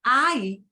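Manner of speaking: "I" as one gliding ai sound; "I" said as one syllable, like eye; blended diphthong. Shown as a demonstration. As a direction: run A and E together into a single "I". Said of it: "they need to run together".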